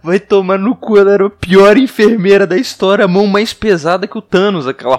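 loud, fed-up complaining; loud exasperated rant. Real, not acted. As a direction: vent about her loudly. Ranting about the worst nurse. (reclamando alto e indignado)

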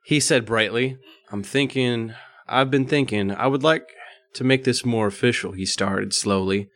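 measured read-aloud voice; story narration. A narrator's reading. Reading an erotic story to co-hosts, narrating. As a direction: read it out as prose, evenly.

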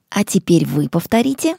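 ordinary delivery

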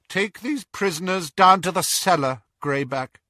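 high, firm command; cold order. A narrator's reading. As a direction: order the werewolf. Narcissa orders.

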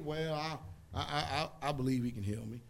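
doubtful churchgoer unsure of healing; hesitant stammer. Retold or imitated. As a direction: stammer out a weak yes. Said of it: "you gotta listen".

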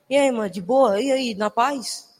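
easy, drawn-out street greeting, slowing at the end; relaxed slang hello, stretched out slowly; laid-back slang greeting. Shown as a demonstration. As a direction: greet them like a chill buddy. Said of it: "Você chega assim".

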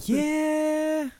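high squeaky yeah; imitating a high rising yeah; uptalk. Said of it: "It might be like".

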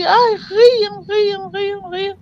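high, cackling imitation of people laughing; retelling how strangers laughed at her, imitating their high giggles; mocking laughter. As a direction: mimic the giggling passengers, a little cruel. Villagers laughing at her on bus.

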